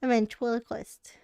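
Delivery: talking with food in mouth; mouth full. Real, not acted. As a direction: speak through a mouthful of food. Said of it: "I'm gonna talk with food in my mouth".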